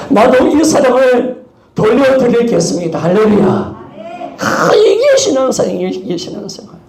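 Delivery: loud, high, fervent sermon; preaching. Acted.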